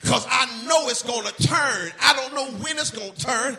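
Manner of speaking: loud, rising gospel preaching; preaching at full force. Acted. Preacher urging the church to praise God anyhow, full force. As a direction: build the congregation up to praise.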